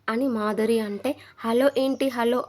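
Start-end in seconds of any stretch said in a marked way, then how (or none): 1.4-2.4 firing back. Retold or imitated. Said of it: "Divya fire అయ్యింది".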